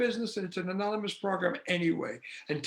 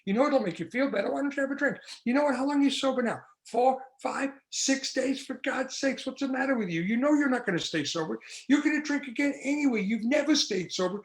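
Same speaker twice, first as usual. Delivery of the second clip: a lightly voiced, coaxing inner tempter, a bit higher; a hint of a wheedling inner voice, higher; tempting inner voice; 4 semitones higher than usual. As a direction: needle yourself like an addict's whisper. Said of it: "the voice says this".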